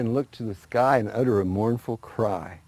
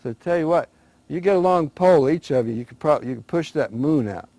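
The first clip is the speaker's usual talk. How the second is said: rabbit voiced higher, selling the plan; a lightly voiced sly rabbit, higher and eager; scheming rabbit; 6 semitones higher, 4 dB louder than usual. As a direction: talk them into it like a sly trickster. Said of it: "He said".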